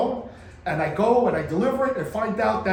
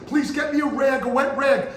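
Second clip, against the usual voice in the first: mock sick plea; 9 semitones higher, 4 dB louder than usual. Wife sends husband for rag.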